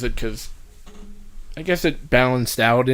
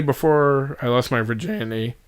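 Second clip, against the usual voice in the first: voice cracking. Real, not acted. Admitting when the dildo purchase happened, voice cracking. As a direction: voice cracks on "virginity". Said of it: "My voice just cracked there".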